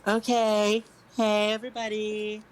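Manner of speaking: grand stage announcement to the crowd; showy bard. Acted. Bard introducing herself to the tavern crowd, grandly. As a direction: puff yourself up like a star performer.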